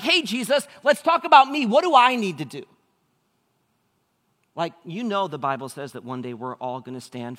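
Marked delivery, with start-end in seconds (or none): 0.0-2.7 high, loud, breezy self-centred ask; self-absorbed ruler. Retold or imitated. The young ruler turning the talk to himself before Jesus, high and breezy. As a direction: make it all about yourself. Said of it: "he's like".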